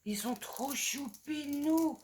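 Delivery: slow, whispered, fond of the stickers; cooing whisper. Real, not acted. Vlogger whispers to viewers about cute stickers.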